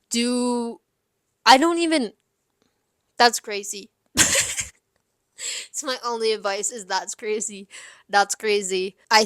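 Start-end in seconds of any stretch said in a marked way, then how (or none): 4.2-4.6 quick helpless chuckle; short laugh. Real, not acted. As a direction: laugh it off briefly. Laughs at how crazy it is.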